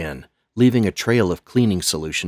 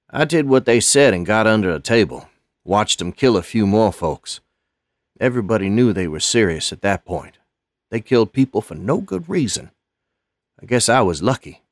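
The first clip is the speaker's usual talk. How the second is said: put-on shaken old man; 4 semitones higher, 4 dB louder than usual. Lonnie continues shaken story.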